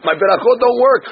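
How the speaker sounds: retold indignation, pitch lifting from the narration; upset rabbi. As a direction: mildly protest like an affronted rabbi. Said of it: "the rabbi now got all upset".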